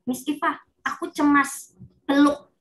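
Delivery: a pupil telling Miss Iva they feel anxious; anxious child. Retold or imitated. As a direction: ask Miss Iva for a hug like a worried kid. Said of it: "Dia bisa bilang".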